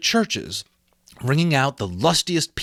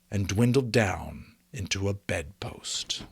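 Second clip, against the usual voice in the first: whisper; 4 semitones lower, 7 dB quieter than usual. A narrator's reading. Whispered close of the stave.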